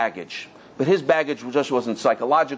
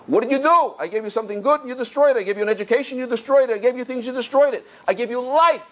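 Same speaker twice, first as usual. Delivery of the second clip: scolding father; 7 semitones higher than usual. Retold or imitated. Angry father scolding wasteful child.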